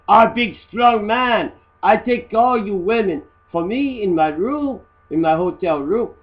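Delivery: lightly voiced macho man bragging; a hint of a show-off strongman; mock macho boast. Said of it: "He's Mister Macho Man".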